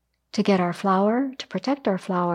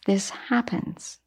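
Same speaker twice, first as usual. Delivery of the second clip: much softer and slow, dropped almost to a murmur; hushed echo; 7 dB quieter, much slower than usual. Shown as a demonstration. Teacher echoing her own point to the listeners, softly and slowly. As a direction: let the repeat fall away quietly, slowly.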